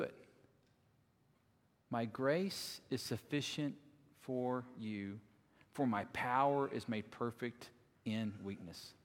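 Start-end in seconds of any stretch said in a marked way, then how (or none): 1.9-8.9 soft, low, grave divine voice fading to near silence; voice of the Lord. Acted. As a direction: speak as God, gently and low. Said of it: "the voice that comes back to him".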